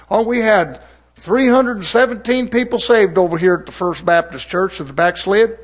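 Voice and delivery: lightly mocking church brag; mocking boast. Preacher mimics Baptist church reporting its converts, mocking. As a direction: parody a proud attendance report. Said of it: "I'm mocking".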